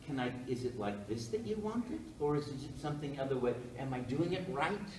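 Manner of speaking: softened, tentative questioning; asking permission. Retold or imitated. Actors seeking the director's approval, soft hesitant questions. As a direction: imitate someone unsure, asking for approval. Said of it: "was asking permission".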